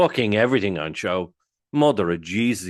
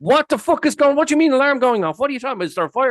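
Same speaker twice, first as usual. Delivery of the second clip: high, loud, panicked disbelief; panicked alarm; 6 dB louder, faster than usual. Retold or imitated. Host hears the fire alarm may go off, high loud panic. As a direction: squeal it out like the building's on fire.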